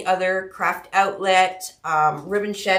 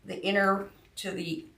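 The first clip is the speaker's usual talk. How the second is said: mumbling; 6 dB quieter than usual. Real, not acted. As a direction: mumble it, worn out. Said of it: "if I sound like I'm mumbling".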